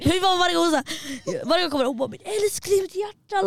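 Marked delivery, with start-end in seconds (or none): 2.1-3.5 high-pitched mock motherly cooing; doting mum imitation. Mum greeting her daughter, high doting imitation. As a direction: coo like an adoring mum. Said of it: "hon är jättegulligt".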